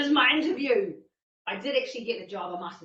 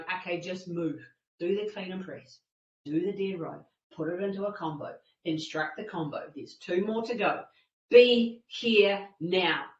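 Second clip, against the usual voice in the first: measured, lower, step-by-step self-coaching; calm self-instruction; 4 semitones lower than usual. Retold or imitated. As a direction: talk yourself steadily through each step. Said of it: "that space of being present".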